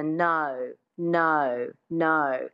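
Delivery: "no" with a little schwa starting the O; Aussie O sound. Shown as a demonstration. Coach recalling the tricky sound, "no" with Aussie O. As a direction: give each "no" an Australian twang on the O. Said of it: "the sound that we talked about before".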